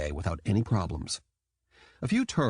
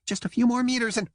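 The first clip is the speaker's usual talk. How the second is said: squeaky dolphin; 13 semitones higher, 3 dB louder, faster than usual. A narrator's reading. Jam dolphin voice.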